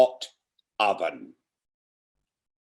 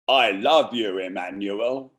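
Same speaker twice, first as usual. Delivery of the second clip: put-on I love you said aloud, northern accent; now say it out loud to him; 2 semitones lower than usual. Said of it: "Repeat out loud".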